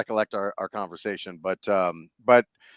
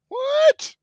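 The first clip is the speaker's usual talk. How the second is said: high, loud disbelieving what; shocked eight-year-old; 5 dB louder than usual. Retold or imitated. Boy hearing from cousin his dog died, high shocked cry. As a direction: gasp it out like a stunned little kid. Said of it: "My little lip is quivering".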